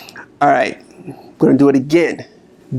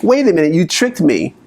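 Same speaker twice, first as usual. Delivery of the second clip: higher, startled complaint; caught-out inner voice; 4 semitones higher than usual. Retold or imitated. Coach voicing the inner critic caught out, startled. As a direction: sound tricked and indignant. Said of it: "it's like".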